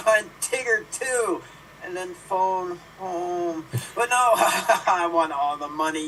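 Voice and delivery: dramatic monologue. Acted. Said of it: "attempt to recreate".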